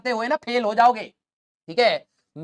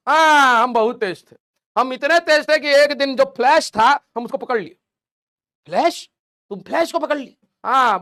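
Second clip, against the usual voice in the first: bragging friend; 3 semitones higher than usual. Retold or imitated. Teacher acting a friend who brags about Tibet, boastful. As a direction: puff up and brag to outdo him.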